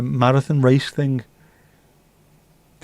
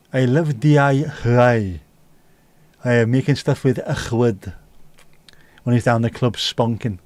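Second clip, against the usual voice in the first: put-on South Welsh accent. Sliding into the fella off Absolutely, South Welsh accent. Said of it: "Once I start doing that accent".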